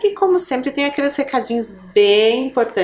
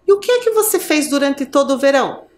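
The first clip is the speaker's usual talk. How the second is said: ant's question; 4 semitones higher than usual. Acted. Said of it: "A formiga então perguntou a ela".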